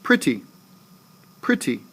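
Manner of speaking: Pretty, strong Pre falling to ty; stress on first syllable. Shown as a demonstration. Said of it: "I start off stressing that word".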